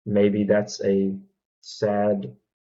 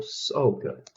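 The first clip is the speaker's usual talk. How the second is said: breathy whisper of pleasure; whispered rave; 3 semitones higher, 5 dB quieter than usual. Real, not acted. Craving Cajun boiled peanuts, whispered. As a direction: whisper it like a guilty treat.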